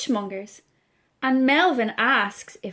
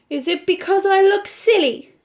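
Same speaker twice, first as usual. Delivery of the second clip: high, anxious question; fretting that he looks silly; a worried little monkey voice; 8 semitones higher, 6 dB louder than usual. Acted. Melvin alarmed, worried question.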